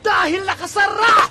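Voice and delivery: happy shouting. Acted. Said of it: "Ba't ko sumisigaw?".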